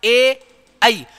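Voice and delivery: very slow ए and आई, each held long; teacher repeating the diphthongs slowly; drawn-out vowels. Shown as a demonstration. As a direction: hold ए and आई long so each is heard. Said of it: "इनका उच्चारण स्थान दो दो होंगे".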